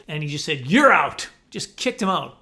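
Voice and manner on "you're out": sudden loud, stretched umpire shout; imitated ejection yell; umpire's ejection call. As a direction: bellow it like an ump tossing someone. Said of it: "It was like, no warning".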